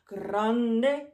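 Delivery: loud, stretched word; big voice. Shown as a demonstration. Teacher showing grande in a loud, big voice. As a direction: make grande sound huge. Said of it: "big and small".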